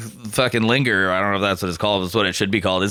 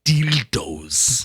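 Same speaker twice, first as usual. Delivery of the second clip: Herzog impression. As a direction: say "Dildos." like Werner Herzog, in a German accent. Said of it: "where he says dildos".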